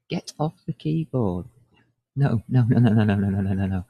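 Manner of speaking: loud rapid string of no's; loud protest. Real, not acted. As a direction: stop the cat, loudly. Cat on the keyboard.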